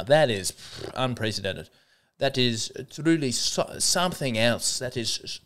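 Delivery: put-on shaky try at a South African accent; attempted South African accent. Host testing a South African accent on listeners, faltering attempt. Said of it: "is the South African accent anywhere near okay".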